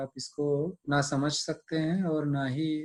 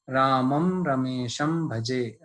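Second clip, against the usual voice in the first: slow, measured shloka chant; Sanskrit recitation; much slower than usual. Shown as a demonstration. Teacher recites the Sanskrit verse for students, slow chant. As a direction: recite the verse slowly and evenly.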